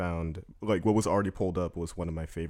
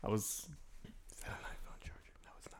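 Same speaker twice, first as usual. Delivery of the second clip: hushed aside whisper; 14 dB quieter than usual. Real, not acted. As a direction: whisper it off mic. Aside while recording.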